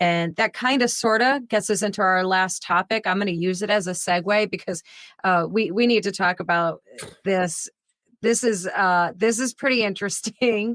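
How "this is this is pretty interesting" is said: talking through horrified, disbelieving laughter. Introducing the last topic that is not funny: horrified laugh while talking. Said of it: "I don't know why I'm laughing".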